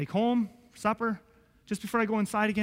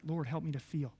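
quiet recalled prayer; 5 semitones lower, 8 dB quieter than usual. Retold or imitated. Recalling prayer, seen like video.

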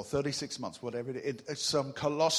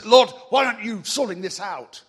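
mock complaint to God; 6 semitones higher, 11 dB louder than usual.

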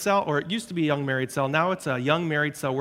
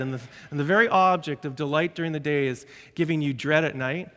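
usual speaking voice

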